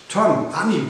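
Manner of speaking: high, loud excited call; calling out names. A narrator's reading. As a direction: shout to lost friends across water. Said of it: "rief sie".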